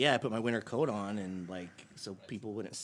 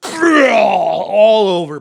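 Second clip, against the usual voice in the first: high, slow crying shout; 9 semitones higher, 21 dB louder, much slower than usual. Retold or imitated. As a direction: wail it out loud and slow. Retelling the vomiting.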